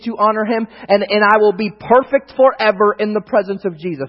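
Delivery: loud, driving preacher build; preaching. Real, not acted. Preacher telling the church of glorification, driving preaching.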